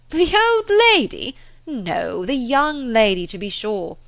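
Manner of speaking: high, loud mock-amazed cry; astonished exclaim. A narrator's reading. Mr Weston correcting Frank, high and loudly amazed. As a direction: scoff at the very idea.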